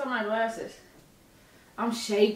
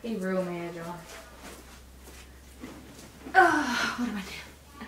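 much softer, low-voiced confiding to viewers; hushed aside to camera; 4 semitones lower, 15 dB quieter than usual. Real, not acted. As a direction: sneak a quiet word to the audience behind his back.

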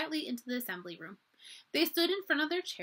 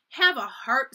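laughing; 3 semitones higher, 10 dB louder, slower than usual. A narrator's reading. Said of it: "laughed Uncle Guard".

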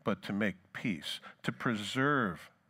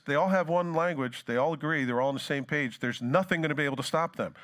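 raised, declaiming voice of God; Lord speaking; 4 semitones higher than usual. Retold or imitated. Preacher quoting the Lord to congregation, raised and proclaiming. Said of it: "The Lord says".

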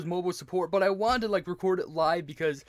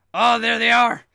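loud, higher burst of recognition; thrilled, raised-voice exclamation; excited discovery; 5 semitones higher, 11 dB louder than usual. Real, not acted. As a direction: exclaim on spotting them. Spots the developers' credits.

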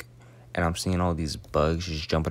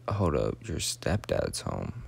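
shocked; 4 semitones lower, 4 dB quieter, slower than usual. Retold or imitated. Shocked to learn stepdad home.

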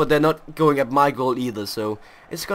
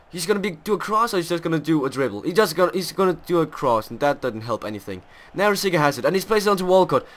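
usual speaking voice

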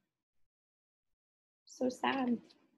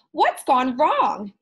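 slow, loud, dismayed cry; loud, drawn-out witchy alarm; alarmed witch; 3 semitones higher, 8 dB louder, slower than usual. Acted. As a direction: demand it in a panic. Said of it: "screamed Ophelia".

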